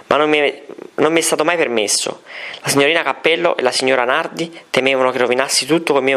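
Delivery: words spaced and pointed; clear and deliberate. A narrator's reading. Girl accusing the teachers, clear deliberate. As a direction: make every word land. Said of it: "con voce chiara, scandendo le parole".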